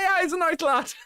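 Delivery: high, giggly pub-mate approval, laughing through the words; laughing fond approval. Retold or imitated. Streamer imitating mates about a young lad, high and laughing. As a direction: chuckle it out like an affectionate mate at the pub. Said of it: "It's like".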